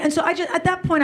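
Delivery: ordinary delivery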